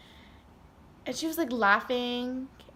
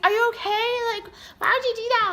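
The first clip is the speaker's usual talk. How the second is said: high, louder, quick mock yell; 12 semitones higher, 6 dB louder, faster than usual. Sister yells at injured speaker like a mom, quick mock yell. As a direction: scold like a worried mom. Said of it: "Like, yelling at me, like she's my mom".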